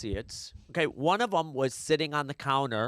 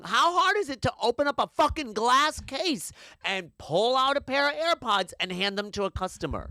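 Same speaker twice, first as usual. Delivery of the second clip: higher, incredulous complaint; outraged customer at the counter; exasperated rant; 7 semitones higher than usual. Real, not acted. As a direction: demand an answer in disbelief. Angry rhetorical question.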